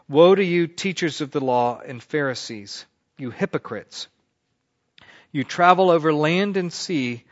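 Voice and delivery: prophet's woe, read to the class; scripture reading. Acted. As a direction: proclaim the woe oracle from the text. Reads the woe oracle aloud.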